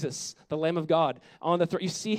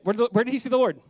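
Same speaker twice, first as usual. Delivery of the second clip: louder, prompting the room to answer; calling on the congregation to answer, louder; 5 semitones higher, 5 dB louder, faster than usual. Shown as a demonstration. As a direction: push the question out so they reply. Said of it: "Say it".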